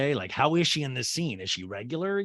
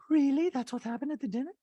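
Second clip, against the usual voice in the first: mock surprise; 13 semitones higher, faster than usual. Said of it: "Dree goes".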